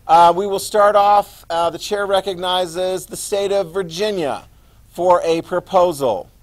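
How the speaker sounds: booming court crier opening session; bailiff. Acted. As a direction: call the convention to order loudly. Teacher opens the mock convention.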